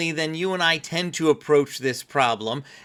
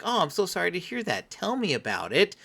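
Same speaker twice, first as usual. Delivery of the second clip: empathizing; 4 dB quieter than usual. Shown as a demonstration. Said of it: "especially if we say something like".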